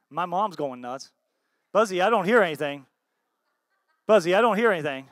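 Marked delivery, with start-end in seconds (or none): 1.7-2.9 loud playful call to the room. Real, not acted. Pastor calling on Buzzy for a woohoo, loud. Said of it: "I wanna hear a woohoo". 4.1-5.1 loud, quick call through a laugh. Real, not acted. Pastor teasing Buzzy for a woohoo, laughing. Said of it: "I wanna hear a woohoo".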